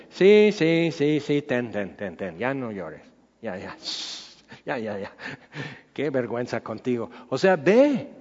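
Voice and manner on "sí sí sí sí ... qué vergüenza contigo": put-on softer, hushing voice soothing a crying child; God quietly calms a whining believer; God comforting, amused. God to crying believer: soft, amused hushing. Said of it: "Y Dios riéndose".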